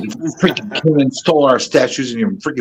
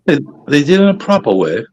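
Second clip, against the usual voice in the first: put-on second try at a British accent, smoother and less rushed; a more even, improved go at a posh British accent; better British accent; 2 semitones lower than usual. Coached by a friend, he retries the British accent, smoother. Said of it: "You're getting better".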